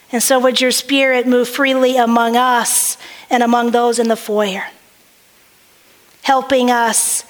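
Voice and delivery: earnest prayer voice, calm and measured. Acted. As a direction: lead the church in prayer. Pastor prays before the reading.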